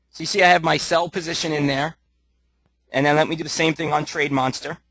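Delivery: slightly hoarse, losing his voice. Real, not acted. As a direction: talk through a tired, hoarse throat. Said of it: "I apologize if I'm losing my voice here".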